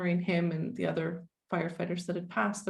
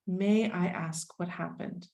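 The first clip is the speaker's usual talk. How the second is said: gentle asking; slower than usual. Retold or imitated.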